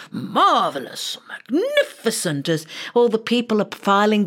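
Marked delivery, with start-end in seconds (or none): 0.1-2.5 slow, murmured marvelling; king's praise, hushed. Retold or imitated. King heard from down the line, slow and hushed. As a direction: drift the praise as if heard from afar. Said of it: "hear the king saying".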